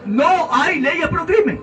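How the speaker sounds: slow, drawn-out mocking parrot of the opponents; slow sarcastic imitation of a rival's slogan; mocking quote. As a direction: mimic their denial slowly and scornfully. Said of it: "el pacto mafioso que dice".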